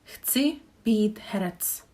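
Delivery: Chci být herec said slowly and clearly; slow model sentence. Shown as a demonstration. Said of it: "model sentence".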